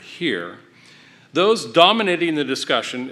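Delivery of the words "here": "here" drawn out slowly for emphasis; stress on HERE. Real, not acted. Speaker at Hillsdale singles out the word, slow stress on "here". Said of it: "let me stress the word".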